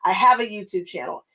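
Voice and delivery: firm, proud, owning every word; with my chest. Shown as a demonstration. Quilting vlogger now announces her channel with confidence. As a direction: state it like a boss. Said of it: "now I'm trying to say it with my chest".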